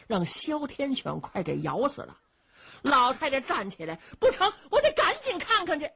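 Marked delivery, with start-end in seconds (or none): 4.2-5.9 put-on high, urgent old lady; agitated, high-voiced old woman; frantic old mother. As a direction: insist anxiously, pitched way up. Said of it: "可把老太太急坏了".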